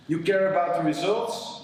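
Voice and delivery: ordinary talk, nothing marked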